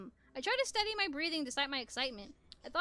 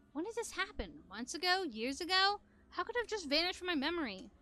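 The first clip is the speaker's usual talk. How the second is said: anxious questioning; 5 semitones higher than usual. Acted. Frantic questioning.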